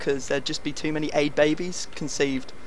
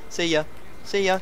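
each see ya climbing higher, ending high; building taunt; 8 semitones higher, 3 dB louder than usual. Pretend. Player waving off the defender, taunt climbing higher. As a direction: sing it higher every time to rub it in.

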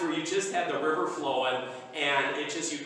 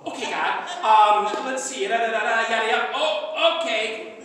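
mock rushed prayer; 2 semitones higher, 6 dB louder than usual.

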